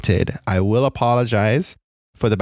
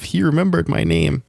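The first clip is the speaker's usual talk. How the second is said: higher-pitched, giddy fan aside; giddy inner thought; 6 semitones higher than usual. Retold or imitated. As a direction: think it to yourself, starstruck and higher. Giddy thought acted out in story.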